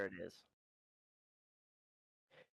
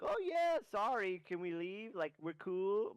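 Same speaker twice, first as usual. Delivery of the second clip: much higher, nervous little goblin asking; squeaky goblin plea; 7 semitones higher, slower than usual. Acted. Goblin asking the mercenary if they can go, in a high nervous squeak. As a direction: squeak out a hopeful request to leave. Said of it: "he's kinda asking".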